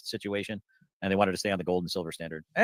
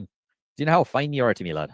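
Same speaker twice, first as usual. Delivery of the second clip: louder higher playful tease; playful teasing; 3 semitones higher, 4 dB louder than usual. Pretend. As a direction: tease them, sing-song and bright. Playful line, repeated softer.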